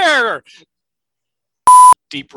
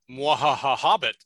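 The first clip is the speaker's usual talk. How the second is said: sneering panto villain; 8 dB louder than usual. Pretend. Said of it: "That's going in the outtakes".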